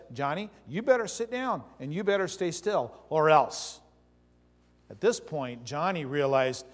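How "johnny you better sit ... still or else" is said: stern dad warning. Retold or imitated. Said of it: "Dad finally says".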